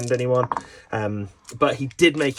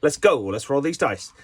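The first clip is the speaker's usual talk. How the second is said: pumped-up self; 2 semitones higher than usual. Shown as a demonstration. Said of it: "Me two is like".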